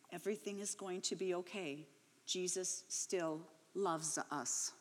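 put-on soft, hushed comfort to a scared child; quietly reassure, like a mother holding her daughter; gentle reassurance.

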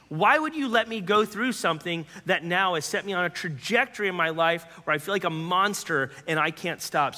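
put-on a man raging at God over his childhood; angry cry to God. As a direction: hurl the questions at God. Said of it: "really mad at God".

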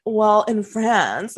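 mock a know-it-all customer, drawn out; imitating a condescending diner lecturing a bartender; snooty correction. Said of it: "this type of couple that's like".

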